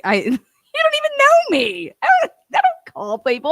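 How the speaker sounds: giggling through the words; laughing through it. Real, not acted. Laughs through the retold line.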